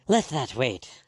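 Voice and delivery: loud, curt snap; snapped almost angrily. Acted. Doctor cutting off the women's questions, angry snap. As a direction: cut her off, almost angry. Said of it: "snapped Mister Blood, almost angrily".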